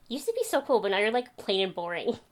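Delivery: high mock clerk, then easing down; a hint of the prying old man; clerk's verdict again. Clerk repeating his insult, high mock voice. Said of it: "But no, he went".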